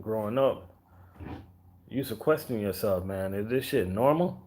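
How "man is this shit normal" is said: usual speaking voice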